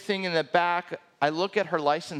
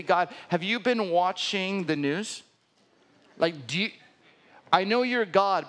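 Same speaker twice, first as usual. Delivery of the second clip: incredulous; 2 semitones higher than usual. Retold or imitated.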